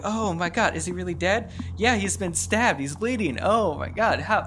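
acted freaking out. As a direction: play a panicked bystander, lightly hammed. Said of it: "everyone's freaking out".

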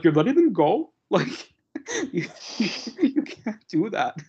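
put-on a half-hearted Scottish accent, pitched high; barely attempted Scottish brogue with laughs. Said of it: "I'm not gonna try to do a Scottish accent too well".

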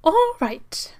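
whispering. Acted. Sprout whispers to wife.

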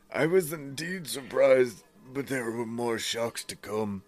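lightly voiced woman's last message; man doing a woman's voice. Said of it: "this is still her".

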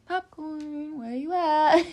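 high-pitched teasing call, breaking into laughter; playful calling-out. Pretend. Tarot reader hunting popcorn for the debate, playful high call.

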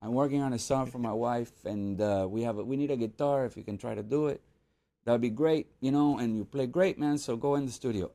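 put-on light Latin accent; lightly done Latin accent, playful. Emilio Estefan asking guitarist to play, light Latin accent. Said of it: "I'm gonna do the accent a little bit".

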